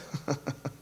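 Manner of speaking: low, quiet chuckle; soft chuckle. Real, not acted. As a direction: chuckle softly under the breath.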